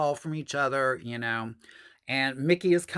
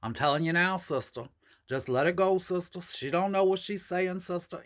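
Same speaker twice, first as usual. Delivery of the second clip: imitating Alice; 2 semitones higher than usual. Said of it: "She used to talk like that".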